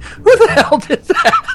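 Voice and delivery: fake innocent outrage. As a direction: pretend to be the victim.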